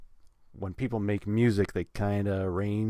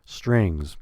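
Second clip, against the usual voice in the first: "strings" louder, held and falling; stress on strings; 5 dB louder than usual. Shown as a demonstration. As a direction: punch "strings". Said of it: "a little bit higher".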